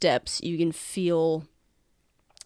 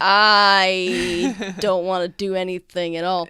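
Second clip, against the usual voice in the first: loud refusal; 8 dB louder than usual. Acted. Fingers backs off from helping, hammed-up loud refusal. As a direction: blurt it out, hammed-up. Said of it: "putting his hands out to be like".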